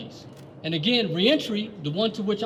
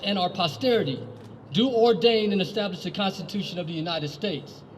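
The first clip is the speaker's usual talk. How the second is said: reciting the Preamble; 2 semitones higher than usual. Acted. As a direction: recite it like a founding document. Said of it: "This states".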